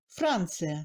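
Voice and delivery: "Francia" with long A, brief I; clear A, brief I. Shown as a demonstration. Teacher repeating the example, "Francia" with clear A. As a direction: hold the A in "Francia", pass quickly over the I. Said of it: "le I passe brièvement".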